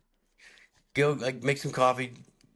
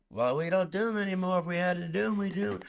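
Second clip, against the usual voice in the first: Seinfeld impression; 6 semitones higher than usual. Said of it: "my impression of Seinfeld's not that good".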